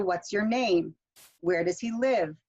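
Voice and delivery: wh-questions dropping on "name" and "live"; falling intonation. Shown as a demonstration. Teacher modelling W H questions, falling intonation. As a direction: lift then let "name" and "live" fall. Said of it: "with the falling intonation".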